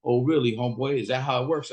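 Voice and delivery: mildly miffed, questioning imitation; pissed-off homeboy. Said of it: "he gets pissed".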